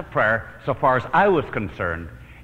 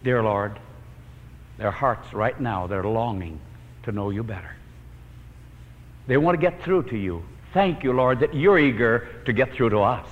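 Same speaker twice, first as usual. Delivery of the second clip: closing prayer. Acted. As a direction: pray over the congregation, gently.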